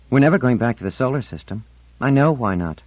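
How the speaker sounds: wounding Marlena. Acted. Marlena wants to hurt Ornell with true words, pointed. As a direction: deliver it as a pointed declaration.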